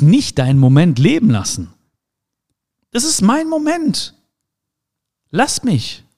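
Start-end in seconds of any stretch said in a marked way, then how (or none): 2.9-6.0 high, drawn-out insistence; slow, high-pitched mock protest; mock childlike insistence. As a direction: play a child claiming the moment. Acted defiant reply to others.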